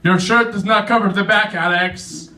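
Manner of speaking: acted-out disgusted telling-off; complaining boss. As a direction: nag with the name tacked on like a reprimand. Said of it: "My boss at work is always complaining".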